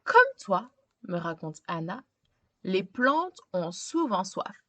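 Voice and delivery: put-on gentle read-aloud narration for a young child; storybook reading. A narrator's reading. Teacher reading a picture book to a child, storytelling voice. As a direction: tell it like a bedtime picture book.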